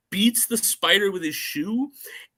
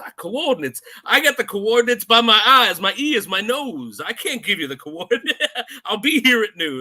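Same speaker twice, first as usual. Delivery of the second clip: higher-pitched, hammed-up film character impression; Quarrel; 6 semitones higher, 6 dB louder than usual. Quarrel refusing Bond the coordinates, hammed-up impression. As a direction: play up the islander's punchy comeback, pitched up. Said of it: "plays Quarrel delivers it great".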